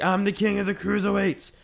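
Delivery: lightly hammed-up brag; imitating Neville. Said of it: "and he's like".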